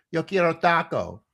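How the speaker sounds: mock-stern toddler demanding food; baby wants tacos. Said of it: "a tirade of how angry the baby is".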